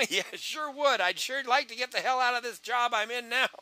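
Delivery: high-pitched, eager agreement; eager prospect. Shown as a demonstration. Prospect answering a recruiter's offer, high and eager.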